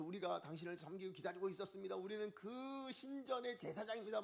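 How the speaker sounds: a hint of reverent announcing, rising as it goes; lightly voiced temple priests. Preacher as priests introducing themselves to gods, lightly proclaiming.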